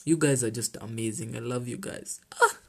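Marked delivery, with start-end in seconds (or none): 2.4-2.6 fighting back tears of gratitude; overcome, laughing through emotion; choked up. Real, not acted. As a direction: voice catching, half crying, then a laugh. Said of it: "I don't want to get emotional".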